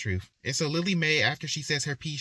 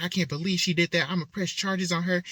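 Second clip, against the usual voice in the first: raised-pitch, mildly acted indignation; indignant outburst; 5 semitones higher than usual. Daughter threatening to press charges, acted indignant outburst. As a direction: play a daughter going off, a touch higher. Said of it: "Jade starts going off".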